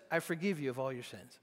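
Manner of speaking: quietly forgive the man; soft Jesus voice. Acted. Jesus to the crippled man, softly forgiving.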